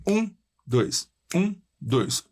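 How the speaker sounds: counting one-two, first beat strongest. Shown as a demonstration. Teacher counting a binary meter aloud. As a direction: count the beats, hit the one. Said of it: "um compasso binário".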